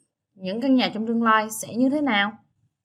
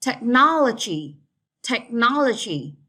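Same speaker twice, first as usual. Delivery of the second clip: Technology with the stress on NOL; Technology, tech-NOL-ogy; second-syllable stress. Shown as a demonstration. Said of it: "Straight on the second syllable".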